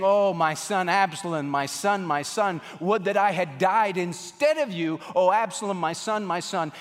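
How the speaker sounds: acted anguished lament, without real sobs; retold weeping lament. Preacher voicing David weeping over his dead son, acted lament. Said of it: "he's weeping, and he's crying, and he's saying".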